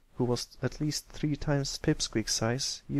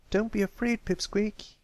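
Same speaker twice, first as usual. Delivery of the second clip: smiling encouragement; 9 semitones higher than usual. A narrator's reading. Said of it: "Applebloom smiled".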